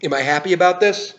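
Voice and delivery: upbeat product news read; brisk presenter talking to camera; YouTube host delivery. Acted. Host's product news segment.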